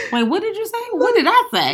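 high, puzzled quote, lost in the conversation; bewildered. Retold or imitated. To a boyfriend who lost her, high bewildered questions. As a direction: sound totally thrown by his words. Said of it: "Then I'm like".

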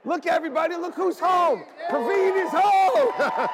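high, loud joyful announcement; welcoming someone home. Real, not acted. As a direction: call it out to the whole room with joy. Announcing member's return to church.

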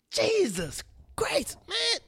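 slow exasperated whisper; whispered exasperation. Real, not acted. Exasperated about R. Kelly, slow whisper. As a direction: breathe it out in disbelief.

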